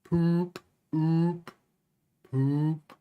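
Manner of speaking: "poop" with a long rounded oo; "poop" demoing the Dutch oe vowel; ooh as in poop. Shown as a demonstration. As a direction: draw out the oo in "poop". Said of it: "O E is like ooh from poop".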